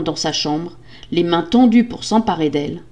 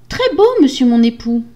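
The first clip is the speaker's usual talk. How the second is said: high, dutiful wife voice; meek wife; 6 semitones higher, 5 dB louder than usual. Acted. Wife reporting to her husband, high meek voice. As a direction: answer high and obediently.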